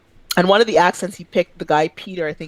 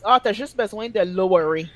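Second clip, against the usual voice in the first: put-on tag French-accented English loanword; 3 semitones higher than usual. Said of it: "use English words and just with a French accent".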